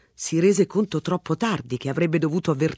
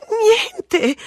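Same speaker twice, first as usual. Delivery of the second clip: wife's quick denial; 7 dB louder than usual. A narrator's reading. Wife covering quickly.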